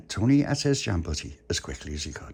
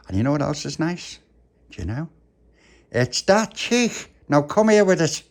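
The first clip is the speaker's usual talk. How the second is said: put-on high, loud gushing over a baby; puppy fussing over a little one; doting puppy; 5 semitones higher, 5 dB louder than usual. Puppy greets baby Lucia fondly.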